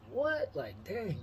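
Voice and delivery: high rising disbelieving what; the question jumps up in amazement; stunned what. Retold or imitated. Teen hears he might meet Chris Webber, surprised.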